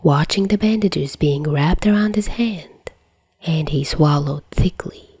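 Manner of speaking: whispered narration. A narrator's reading. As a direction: read it as a hushed bedtime tale.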